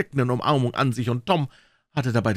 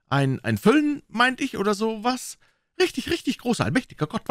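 put-on high, excited old aunt voice; an eager old aunt urging him on; pious old aunt, breathless with wonder; Aunt Polly; 11 semitones higher than usual.

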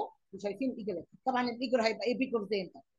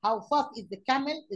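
slow dictation; 2 semitones higher, much slower than usual. Shown as a demonstration. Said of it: "teacher reading the question".

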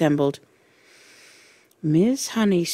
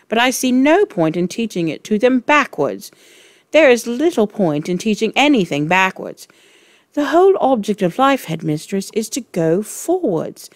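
defiant; 2 semitones higher, 3 dB louder than usual. Acted. Teacher stands up to headmistress.

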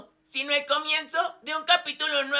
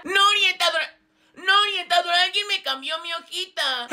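upset protest; 3 semitones higher, 5 dB louder than usual. Acted. Regina protesta por su discurso cambiado.

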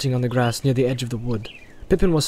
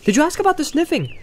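Pippin voice; 4 dB louder than usual. A narrator's reading.

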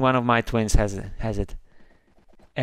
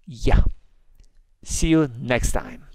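ordinary talk

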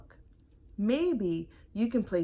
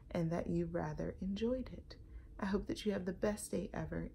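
whisper; 5 dB quieter than usual. Real, not acted. Soft goodbye to viewers.

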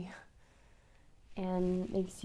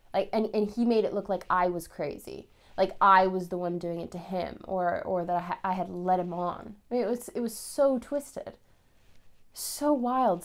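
louder, agitated retelling; worked up, indignant; 6 dB louder than usual. Acted. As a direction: protest it loudly, rising in pitch at the end. Recounting being blamed after the confrontation.

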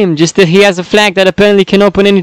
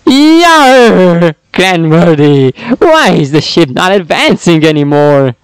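pirate voice. Acted. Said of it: "Pirate voice".

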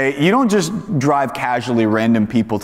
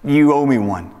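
entitled demand; 4 semitones higher than usual. Retold or imitated. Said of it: "not saying".

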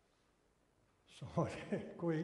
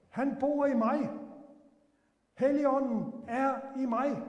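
fervent preaching; 8 semitones higher, 7 dB louder than usual. Acted. Preaching climax.

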